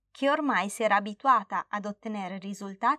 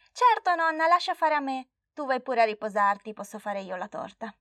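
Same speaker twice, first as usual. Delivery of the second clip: put-on eager little girl; 3 semitones higher than usual. Flavia eager to bake.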